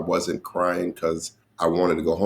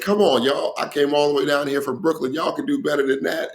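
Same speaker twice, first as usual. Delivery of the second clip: calling to crowd; 8 semitones higher than usual. Retold or imitated. Comic retelling how he warmed up the crowd, mock hype call. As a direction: rev up a sleepy room.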